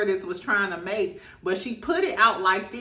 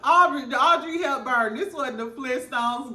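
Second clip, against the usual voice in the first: mock Mary shading; 3 semitones higher than usual. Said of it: "She said".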